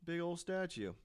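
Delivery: high, slow hammed-up wonder; mock amazed diggers. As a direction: gape at the find. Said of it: "they're like".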